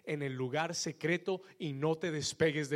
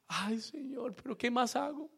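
whiny believer; 7 semitones higher than usual. Retold or imitated.

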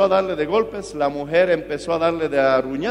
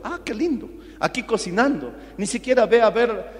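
mock explosion; 3 semitones higher than usual. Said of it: "la esposa con eso explotó".

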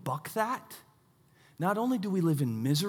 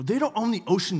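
mild mock indignation, pitched up; little tantrum; 5 semitones higher, 3 dB louder than usual. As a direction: whine in protest like a small tantrum. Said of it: "throwing a little bit of a tantrum".

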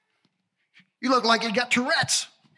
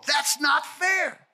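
mock complaint; 4 semitones higher, slower than usual. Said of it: "How many of you ever said this before".

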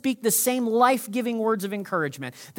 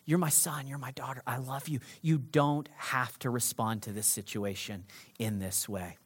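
soft God voice; 7 semitones lower, 10 dB quieter than usual. Acted. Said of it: "God will whisper".

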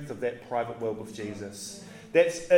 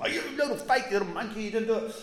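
high, mocking, scolding tone; mock put-down of a failure; scolding misreading; 4 semitones higher, much faster than usual. Shown as a demonstration. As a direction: sneer at him like a disappointed teacher. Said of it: "Jesus never talked like that".

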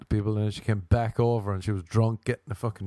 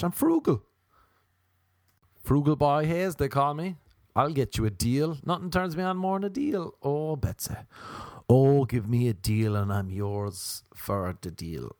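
hammed-up higher voice, slowing at the end; lightly hammed thrifty Irish boy; mock frugal Irishman; 4 semitones higher than usual. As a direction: play up the cheapskate bragging.

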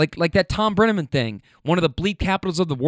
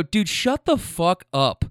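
mildly heated, deliberate scolding; retold snapping; 3 semitones higher than usual. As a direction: retell a fed-up outburst, drawing out the words. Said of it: "I, I snapped".

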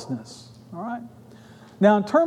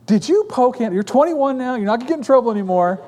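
pressing father; 5 semitones higher, faster than usual. Retold or imitated. Father presses grown son, joking.

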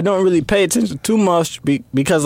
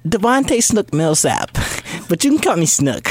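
imitating Snook. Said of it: "more Stefan".

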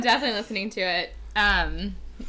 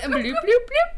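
bubble sounds; 12 semitones higher, 6 dB louder than usual. Pretend. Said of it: "talking in an aquarium".

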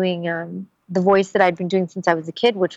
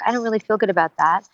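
a mildly troubled read of the line; first take, subdued and doubtful; one emotional read; 3 semitones higher, faster than usual. Shown as a demonstration. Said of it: "implement different emotions".

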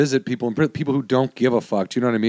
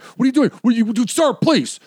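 much higher frantic pleading yell, retold; guard going ballistic; 11 semitones higher than usual. Guard begs the visitor to pull up his pants, frantic high yell. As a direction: beg him to stop, high and frantic. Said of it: "he goes ballistic".

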